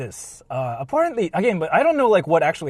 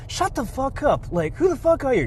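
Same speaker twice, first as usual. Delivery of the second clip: mock rude retort; 8 semitones higher than usual. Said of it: "he basically started saying".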